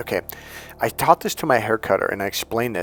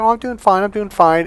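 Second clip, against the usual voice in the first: high, loud small-talk voice; hammed-up cheery answer; mock chirpy reply; 10 semitones higher, 6 dB louder than usual. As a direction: chirp back brightly in exaggerated small talk. Acted chirpy exchange with stepmom.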